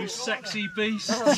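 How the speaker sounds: slow playful shout; playful hype. Real, not acted. Hyping up the group.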